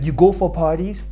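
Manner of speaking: imitated incredulous question, rising tune; pointed question. Retelling how she questioned him about parties, pointed question. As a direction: ask it as she did, ending on a rise. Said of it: "Because the way she said it".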